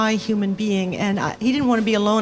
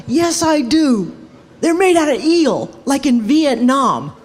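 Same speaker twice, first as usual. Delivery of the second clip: slow, louder, higher rasp right in the face; hammed-up intense jazzman; intense Miles voice; 4 semitones higher, 5 dB louder than usual. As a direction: loom in close and insist. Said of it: "really intense".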